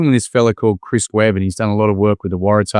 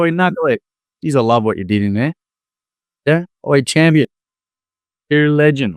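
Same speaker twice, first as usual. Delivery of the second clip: matey praise; 4 semitones higher than usual. Retold or imitated. Mock matey greeting to young fella.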